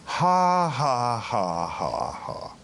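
a put-on ha ha laugh that fades away; demonstrating a laugh. Shown as a demonstration. Preacher demonstrating laughing class exercise, put-on laugh. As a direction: show the class how to force a laugh. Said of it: "And you get in there and just".

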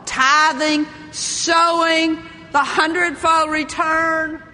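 grand, sustained pulpit intoning; magnificent sermon. Acted. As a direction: imitate a preacher ringing out each sermon topic. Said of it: "you preach this magnificent sermon".

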